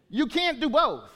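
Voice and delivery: preacher pressing the point; emphatic repeat. Real, not acted. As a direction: drive the point home the second time.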